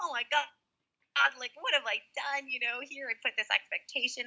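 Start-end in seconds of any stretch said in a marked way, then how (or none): 0.0-2.5 upset, tearful, crying outburst. Retelling going down to their husband in the basement, imitating themself crying. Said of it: "I started crying".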